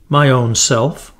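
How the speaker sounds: slow, light fairy voice; a tiny sweet fairy speaking; lightly voiced fairy girl; shrill sweet little voice. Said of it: "she said in a shrill but sweet little voice".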